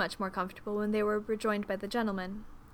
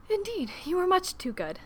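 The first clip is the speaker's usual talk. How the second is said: fawning mother; 8 semitones higher than usual. Acted. Mrs Bennet fawning.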